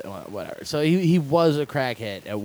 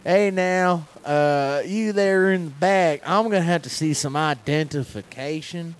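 cop voice; 4 semitones higher, 3 dB louder than usual. Pretend. Cop voice impression.

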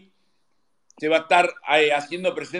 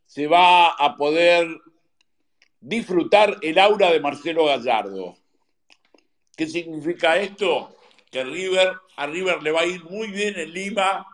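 talking between bites; chewing while talking. Real, not acted. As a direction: still chewing, mouth half full. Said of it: "andá a terminar de masticar".

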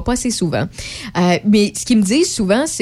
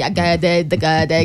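mock stammer; 4 semitones lower than usual. Shown as a demonstration. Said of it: "Fait que là, je bégaye".

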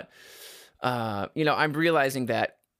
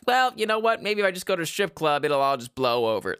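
clueless guy voice; 5 semitones higher, 4 dB louder than usual. Pretend. Voicing clueless boyfriend.

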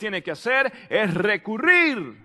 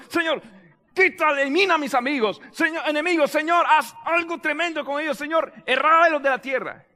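higher-pitched urgent plea, lightly acted; David; 3 semitones higher than usual. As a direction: beg God to strike the enemies. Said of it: "David en un momento determinado".

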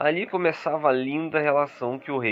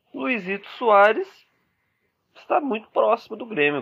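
excited announcement; 8 semitones higher than usual. Acted. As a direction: call it out like big transfer news. Breaking transfer news to fans.

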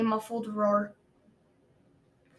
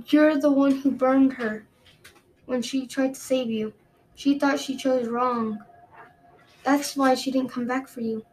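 cruel queen voice; 2 semitones higher than usual. Acted.

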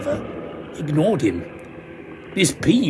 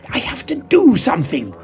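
high, lightly raised call; mock yell over noise; 9 semitones higher than usual. Narrator calling to Grendel over the racket, mildly yelled. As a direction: make yourself heard over the din. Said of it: "I yelled at Grendel above the racket".

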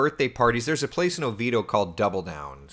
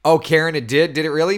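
mock surprise; 7 semitones higher, 9 dB louder than usual. Real, not acted. Mock surprise at viewer comment.

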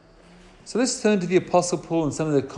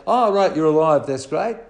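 mock casual; 6 dB louder than usual. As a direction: toss it off like it's no big deal. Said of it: "Thomas doesn't say".

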